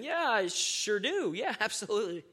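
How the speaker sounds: John calmly answering the devil. Acted. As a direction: answer like nothing scares you. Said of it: "John calmly tells him".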